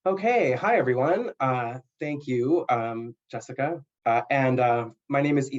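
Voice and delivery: shaky first words of a nervous speaker. Real, not acted. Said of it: "sorry, I'm nervous".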